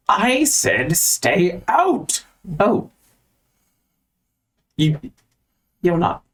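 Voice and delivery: high, drawn-out order to intruders; slow, indignant character voice; irritated library dweller. Acted. Wizard-like figure orders intruders out.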